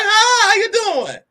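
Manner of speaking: high, slow, syrupy hi; fake sweet greeting. Greeting a woman who looks her up and down, slow syrupy hi. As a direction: drag it out with fake politeness.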